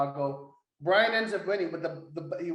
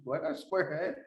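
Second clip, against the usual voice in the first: laughing through the quote; 4 dB quieter than usual. Retold or imitated. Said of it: "look down and question".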